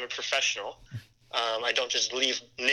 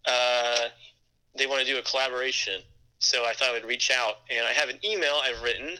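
on speakerphone. Real, not acted. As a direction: voice over a phone speaker. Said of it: "I've got you on speaker".

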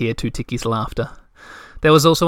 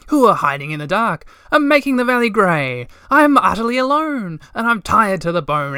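angry shouted song; 5 semitones higher than usual. A narrator's reading. Moomintroll singing his angry song at the winter creatures, shouting high. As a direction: belt it out at the top of your voice. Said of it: "Moomintroll shouted".

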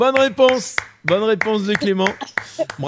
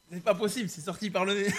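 laughing; 3 semitones higher, 8 dB quieter than usual. Real, not acted. L'eau vient de sortir.

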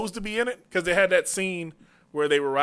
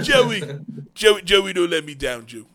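Stallone impression; 3 semitones lower than usual. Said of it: "Sylvester Stallone's retarded ass".

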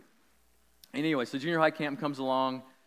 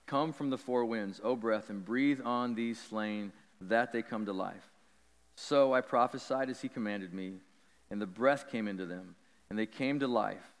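scripture reading. Acted. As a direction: read it out like a preacher.

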